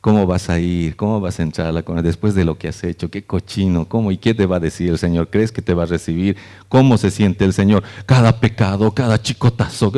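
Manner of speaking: accusing inner voice. Retold or imitated. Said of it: "y esa voz".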